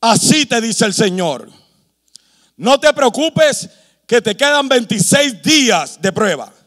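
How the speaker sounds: a hint of God pronouncing reassurance; measured, lightly acted divine announcement; lightly voiced God. Preacher imagines God answering his trial, lightly voiced God. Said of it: "Que Dios se me apareciera y me dirá".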